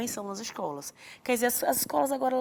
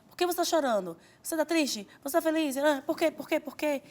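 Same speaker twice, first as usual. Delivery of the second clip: higher-pitched, insistent questioning; interrogating parent; 6 semitones higher than usual. Acted. Parent quizzing a crying child, insistent.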